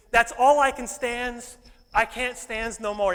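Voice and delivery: slow, loud gruff Popeye growl; mock Popeye declaring he's had enough. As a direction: drag out each word like the cartoon sailor. Popeye quote acted out.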